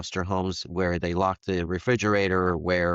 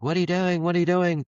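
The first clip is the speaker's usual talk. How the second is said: retold yell; 10 semitones higher than usual. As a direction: cry out as if your bags are being packed. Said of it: "he's yelling at me like".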